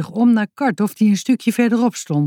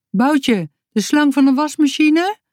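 calling out; 8 semitones higher than usual. A narrator's reading. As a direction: shout the question down the hill. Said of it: "riep Sisi iets vanaf de berg". (hoger roepend van de berg)

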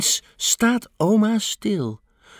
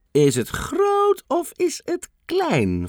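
1 playful guessing; 14 semitones higher, slower than usual. A narrator's reading. Oma plays along, guessing game.

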